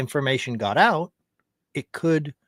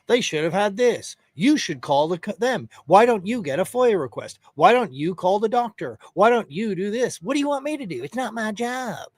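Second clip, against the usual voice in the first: higher whiny mocking voice, rising near the end; mock excuse-making; 4 semitones higher than usual. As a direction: parody a man blaming everyone else. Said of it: "he pawns off every single part of responsibility".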